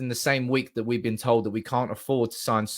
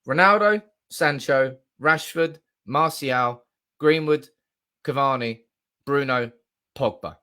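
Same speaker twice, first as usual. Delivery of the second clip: excited; 3 dB louder, slower than usual. Real, not acted. Reading out the dream lineup.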